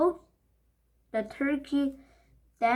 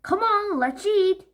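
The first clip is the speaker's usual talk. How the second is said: high, loud, impatient; eager urging; 9 semitones higher, 6 dB louder than usual. Acted. Henry impatient to start eating. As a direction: hurry them up.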